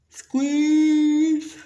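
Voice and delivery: high, loud playful squeal; excited hug squeal; loud squeeze. Pretend. Mimes giving a hug.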